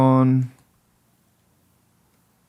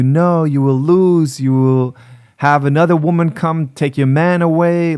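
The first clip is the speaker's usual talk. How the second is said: lightly mocking TikTok coach, pitched higher; imitating manipulative teacher; 3 semitones higher than usual. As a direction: stretch the warning out in a higher mock voice. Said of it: "she talks like this in this video".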